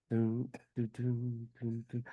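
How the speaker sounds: softly sung "dun" guitar intro; little vocal guitar lick; imitated guitar strum. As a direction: mimic a plucked guitar riff. Imitating the guitar before singing.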